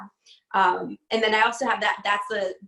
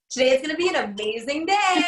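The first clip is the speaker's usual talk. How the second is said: upbeat greeting; 5 semitones higher than usual. Retold or imitated. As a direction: pump up the kids at morning duty. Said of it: "I'm like".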